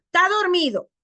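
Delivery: student answering "tá dormido"; clipped student reply. Retold or imitated. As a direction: drop the "es" of "está" and say "tá dormido". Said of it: "me dice Jonathan".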